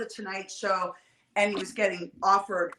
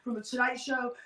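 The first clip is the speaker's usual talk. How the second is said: nervous stammer; 2 semitones higher, faster than usual. Retold or imitated. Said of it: "John's like".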